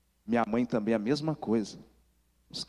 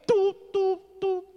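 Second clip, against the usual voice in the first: imitated dial tone, much higher and louder; phone busy tone; 4 dB louder, slower than usual. Mother hangs up on her son, imitated busy tone. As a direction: beep it like a dead phone line.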